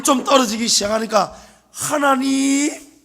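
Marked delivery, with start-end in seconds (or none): 1.7-3.0 slow, drawn-out, higher sugary call of God's name; mocking a believer who only calls when in trouble; mock pious call. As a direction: stretch the word out like a fake-friendly plea. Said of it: "이래 부른단 말이에요".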